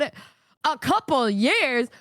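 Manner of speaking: slow, stretched-out disbelief; incredulous. Retold or imitated. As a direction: question it slowly, stunned by the length of time. Repeats the wait in disbelief.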